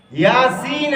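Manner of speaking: very slow "یاسین" with y; careful drawn-out "یاسین"; correct pronunciation. Shown as a demonstration. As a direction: stretch both vowels, "Yaa-seen", in "یاسین". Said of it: "یہ کیا ہے".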